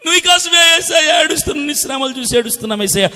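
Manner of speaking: hammed-up crying plea; mock wailing. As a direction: imitate theatrical weepers, starting high and easing down. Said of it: "ఎందుకు ఏడుస్తారు నాటకాలు".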